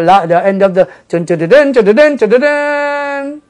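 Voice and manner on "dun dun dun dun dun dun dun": sung high trumpet call, slowing down; trumpet fanfare. Shown as a demonstration.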